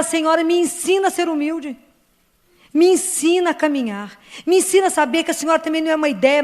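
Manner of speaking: a heartfelt petition, voice lifted; fervent prayer. Pretend. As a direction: beg her gently to teach you.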